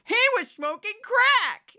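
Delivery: hammed-up scandalized Fox viewer; Fox fanatic imitation. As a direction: drag it out like shocking news. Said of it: "that's my imitation of a Fox fanatic".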